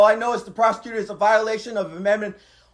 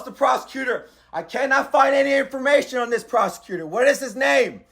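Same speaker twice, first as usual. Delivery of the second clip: raised, insistent shouting over the phone; angry shouting. Real, not acted. Defendant shouting at his lawyer on the phone, angry and insistent. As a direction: shout him down without pausing. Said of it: "Why are you screaming?".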